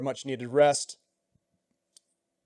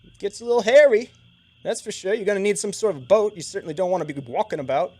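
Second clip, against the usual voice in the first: higher, louder Siluese guide voice; Siluese accent; 4 semitones higher, 5 dB louder than usual. Acted. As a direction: chat easily as the Siluese guide. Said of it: "Siluese accent".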